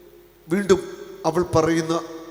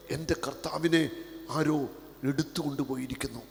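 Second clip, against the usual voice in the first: hushed lament; 7 dB quieter than usual. Acted. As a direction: say it quietly to yourself. Same lament, now hushed. (മൃദുവായ വിലാപം)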